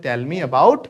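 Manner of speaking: very slow, each word spaced out; slow clear model phrase. Shown as a demonstration. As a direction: model the phrase slowly for the class. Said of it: "तो इसका मतलब होता है". (धीरे-धीरे साफ़ बोलकर)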